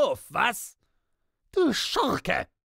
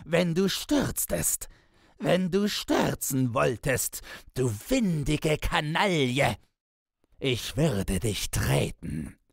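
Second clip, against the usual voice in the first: high-pitched, frenzied bellow; enraged roar, far above normal pitch; screaming and cursing; 10 semitones higher than usual. A narrator's reading. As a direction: scold at the top of your voice, barely human. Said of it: "Man konnte es ein Gebrüll heißen".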